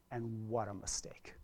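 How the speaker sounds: hushed, breathless whisper of regret. Real, not acted. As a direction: drop to a whisper on what a mistake. Parents turning backs on kids.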